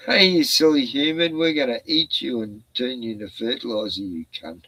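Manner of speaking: mock robot threat, sinking low at the end; menacing AI voice. Friend imagines the AI insulting humans in a mock menacing voice. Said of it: "It'll be saying that soon".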